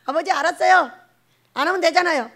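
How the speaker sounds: mock petulant agreement; acted exasperated surrender. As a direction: give in while still complaining. Acted giving in to father.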